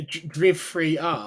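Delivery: "Driv three R" read out letter by letter, slowly; spell-it-out joke reading of "Driv three R"; jokey pronunciation. Pretend. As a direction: say the game's title "Driv three R" as it is spelt, joking. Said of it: "Sorry, I had to".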